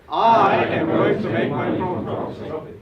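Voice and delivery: loud, high, slow chanted pledge; loud affirmation. Shown as a demonstration. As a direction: chant it with the crowd. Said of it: "Once more".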